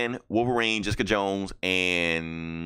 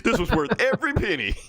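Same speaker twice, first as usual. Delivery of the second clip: sarcastic praise; 12 semitones higher than usual. Pretend. Mock praise for a free comic.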